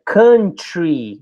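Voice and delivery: "country" with a short uh vowel, kuhn-tree; "country" pronounced kuhn-tree, never cow-ntry. Shown as a demonstration. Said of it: "E lembra".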